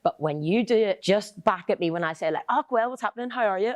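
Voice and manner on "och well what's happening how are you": Northern Irish greeting, pitched up; own Northern Irish accent. Retold or imitated. Northern Irish speaker greeting a friend, native Northern Irish lilt. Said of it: "people do my accent".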